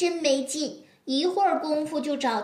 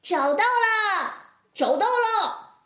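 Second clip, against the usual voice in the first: excited; 6 semitones higher, slower than usual. Acted. Kids find hidden animal.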